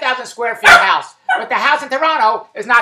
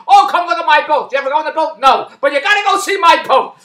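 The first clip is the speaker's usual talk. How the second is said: mock bragging; 5 semitones higher, 6 dB louder than usual. Mimicking boat bragging.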